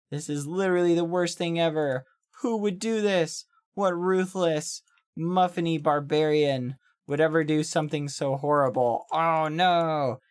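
mild mock horror; lightly hammed-up lament; imitating Hannah freaking out. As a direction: play-act dismay without much force. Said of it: "like, freaking out".

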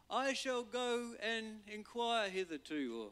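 high, slow archaic mock voice; old King James Moses. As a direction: play it grand and old-fashioned. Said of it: "or however he says it".

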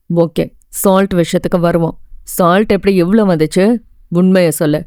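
lightly voiced strict professor demanding the truth; threatening lecturer. Lecturer demanding the truth from his student, stern low voice. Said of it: "மிரட்டி கேட்க".

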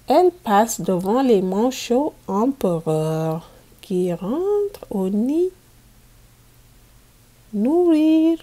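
put-on storybook reading for young pupils; reading to children. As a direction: read it out clearly for a class of kids. Teacher reads picture book aloud.

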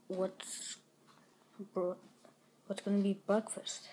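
soft unvoiced whisper. Real, not acted. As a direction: whisper it to yourself. Kid wondering quietly to self.

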